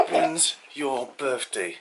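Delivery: slow laughing repeat. Real, not acted. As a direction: stretch it out through laughter. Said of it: "I said".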